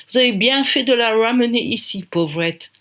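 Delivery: a hint of a British accent. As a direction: director approving kindly. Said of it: "avec son accent british".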